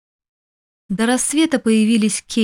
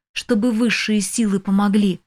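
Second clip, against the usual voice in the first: usual speaking voice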